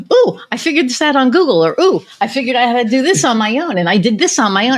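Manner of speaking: high, bright-pitched excited retelling; excited client. Retold or imitated. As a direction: imitate an excited client reporting a win. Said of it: "she's, like, so excited".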